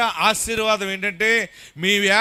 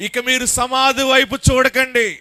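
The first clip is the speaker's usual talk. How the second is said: full-force preaching; 3 dB louder than usual. Acted. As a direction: build the preaching to a shout. Preacher builds to a climax.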